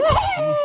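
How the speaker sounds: a hammed-up high whine of self-pity; mock high whimper. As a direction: fake a little sob, high and pitiful. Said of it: "And you up there".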